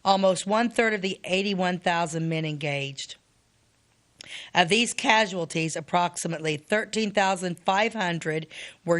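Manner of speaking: measured, deliberate reading of a history text; reading aloud. Acted. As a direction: read the figures out carefully, phrase by phrase. Reads battle casualty figures aloud.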